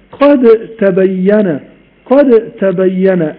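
slow قد تبين, د merged into doubled ت; قد تبين without any د; full merge. Shown as a demonstration. Teacher demonstrating complete assimilation. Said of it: "إدغام كامل".

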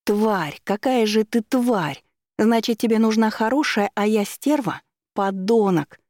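high-pitched, furious accusations; squealed rage. A narrator's reading. Woman clinging to the driver's arms, squealed rage. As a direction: shriek insults at him, somewhat held back. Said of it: "громко завизжав в ухо".

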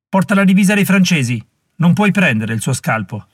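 angry warrior. Acted. Warrior challenging his rival over the prisoner, heated. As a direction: snap at the rival warrior over the drummer boy.

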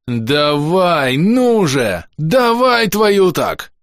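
a rising battle cry of encouragement; frantic urging yell. Acted. Urging the beetle on, yelling.

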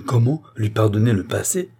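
a startled, indignant cry; exclaiming. Acted. Queen cries out at Barnave in indignant surprise. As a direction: lift it up in shocked disbelief. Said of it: "S'écria la reine".

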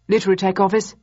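polite, bright phone greeting; polite phone answer. A narrator's reading. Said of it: "he said in a polite voice".

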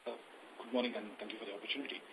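faint and distant over the phone; talking too far from the mic; phone held away. Real, not acted. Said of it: "speak closer to the phone".

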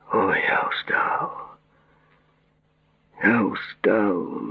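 very slow, weary groaning voice; exhausted. Acted. Patient sinks onto the couch, exhausted. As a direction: drag it out as if worn out.

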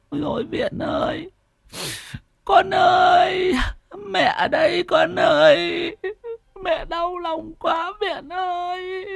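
high, slow crying wail. Acted. Mother wails over her dead daughter's spirit, crying high. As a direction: sob out the child's name in grief. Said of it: "mếu máo".

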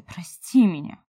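the elf begging Mari to forgive him; pleading apology. A narrator's reading. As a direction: beg "Прости меня" loudly.

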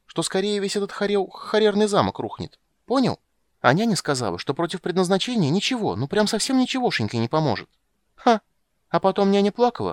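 put-on high, loud childish chatter; a girl breathlessly spilling the secret; excited little girl. Ciri to Geralt, high excited chatter. Ciri's voice.

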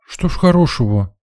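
put-on high, lightly plaintive girl's voice; sad question. A narrator's reading. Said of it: "печально уточнила девушка". (печально, высоким девичьим голосом)

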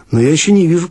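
ordinary delivery

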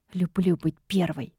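soft murmur to herself; whispered aside. A narrator's reading. Secretary quietly answering the demon to herself, soft. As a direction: say it under the breath, half to yourself. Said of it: "шепнула я про себя".

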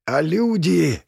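squeezed out through pain; strained. Acted. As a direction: press the words out with effort. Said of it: "выдавил я".

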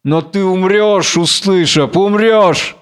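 mild threat, building on the last word; menacing. Acted. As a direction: warn him of death, restrained menace. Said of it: "Грозно". (грозное предостережение)

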